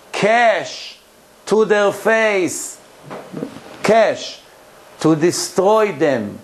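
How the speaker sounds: slow, measured verse with pauses between phrases; solemn, drawn-out recitation; scripture reading. Acted. Reads scripture verse aloud, translated.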